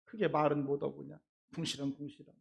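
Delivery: soft, fast grumbling mutter; muttering under breath. Shown as a demonstration. Member grumbling about the returnee under breath, quick and soft. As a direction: grumble quietly so no one hears. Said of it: "속으로 궁시렁거리면서".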